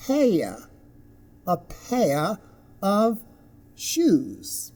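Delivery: "pair" said as peh-uh, no r; word by word, gliding on "pair"; diphthong example. Shown as a demonstration. Teacher gives an example phrase, "pair" carefully sounded. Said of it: "As in".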